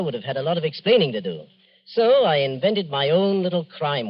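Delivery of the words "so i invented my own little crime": slow and pleased with his own cleverness; villain relishing his plan, slow and smug. Acted. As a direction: savour each word of the scheme slowly. Murderer confessing his scheme.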